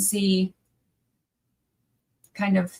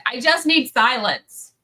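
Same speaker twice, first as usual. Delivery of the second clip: exasperated reply; 3 semitones higher, 6 dB louder, slower than usual. Retold or imitated. Her own reply retold.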